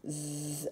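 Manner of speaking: "Z" as a long buzzing zzz; letter sound of Z. Shown as a demonstration. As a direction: hold the buzz of "Z", not the letter name. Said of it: "le son ze".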